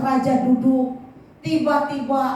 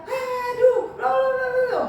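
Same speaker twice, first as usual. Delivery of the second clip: much higher, sputtering toothless rant; angry outburst; 12 semitones higher than usual. Acted. King with a broken tooth, sputtering angrily. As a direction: splutter in rage after losing a tooth. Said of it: "dia jadi marah lagi".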